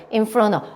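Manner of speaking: "In front of" ending in a bare uh; linked "In front of", like "in-frona"; of reduced to uh. Shown as a demonstration. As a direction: drop the t and v in "In front of". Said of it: "어 발음처럼".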